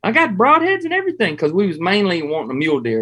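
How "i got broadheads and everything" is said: very high surfer-dude voice, laid back; high-pitched surfer dude. Retold or imitated. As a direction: squeak it out like a mellow surfer guide. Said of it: "he's got a real high-pitched voice".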